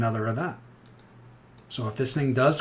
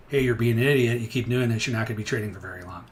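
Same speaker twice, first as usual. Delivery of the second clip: scolding callout; 6 dB louder than usual. Retold or imitated. Scolding a trader, verbal lashing.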